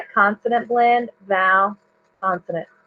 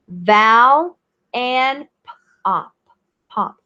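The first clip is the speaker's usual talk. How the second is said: slow tracking; slower than usual. Shown as a demonstration. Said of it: "I'm gonna track my finger".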